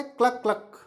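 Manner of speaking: two short clucks; demonstrated cluck-cluck; hen cluck. Shown as a demonstration. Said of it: "हैन का sound क्या होता है".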